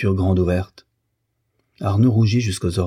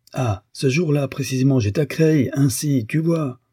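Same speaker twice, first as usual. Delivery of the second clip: higher, lilting self-justification; airy alibi; 6 semitones higher than usual. A narrator's reading. Husband offers his wife an alibi, airy and higher. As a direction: protest innocence in a raised pitch.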